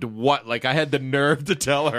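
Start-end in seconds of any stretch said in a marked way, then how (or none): 0.0-0.5 slow mock-disdainful "what"; drawn-out retold disdain. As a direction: imitate a child's scornful "what". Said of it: "like, disdained what".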